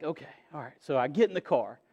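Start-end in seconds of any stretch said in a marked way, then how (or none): 0.0-0.7 1 meek okay. Retold or imitated. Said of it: "I was like".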